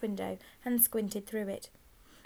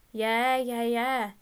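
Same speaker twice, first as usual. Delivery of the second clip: eager, loud chorus of agreement; hasty yes-man chant; 2 semitones higher, 6 dB louder, much slower than usual. A narrator's reading. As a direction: agree hastily with the gang leader. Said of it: "his friends all agreed hastily".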